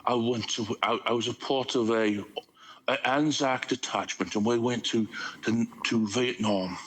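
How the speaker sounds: lightly voiced Anzac soldier spinning a yarn; mock Australian war story, barely put on; bad Aussie accent. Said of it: "I can do the more southern accent".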